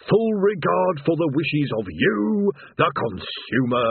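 slow, stoic scripted line; stoic recital. Acted. Demon keeps reciting while Rincewind interrupts, stoically slow. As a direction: plough on through the script regardless. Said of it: "the demon continued stoically".

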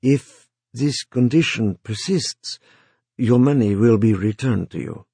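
stiff, awkward formal delivery; stilted voice. Acted. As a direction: say it stiffly, like a rehearsed line. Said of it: "said in a stilted voice".

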